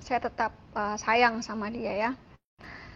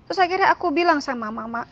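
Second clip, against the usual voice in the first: usual speaking voice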